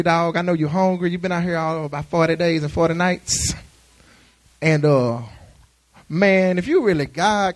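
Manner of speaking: lightly voiced devil talking like a homie; the devil sweet-talking like a buddy; casual street devil. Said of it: "I say".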